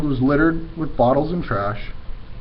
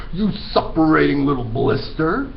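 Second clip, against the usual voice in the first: shouted; 4 semitones higher than usual. Acted. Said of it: "the Trunchbull shouted".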